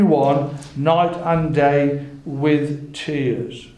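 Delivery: slow, weighty Bible reading, words spaced out; slow right down and let each phrase land; solemn scripture reading. A narrator's reading. Preacher reads Paul's tearful warning, slow emphatic scripture reading.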